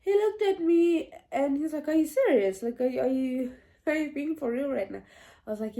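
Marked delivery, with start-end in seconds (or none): 1.9-5.0 stumbling, incredulous retold questions; shocked disbelief. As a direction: question it in mild mock disbelief. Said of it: "he was also shocked".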